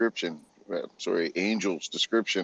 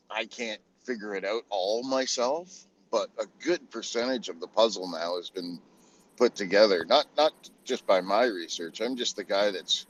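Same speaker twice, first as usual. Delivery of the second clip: ordinary talk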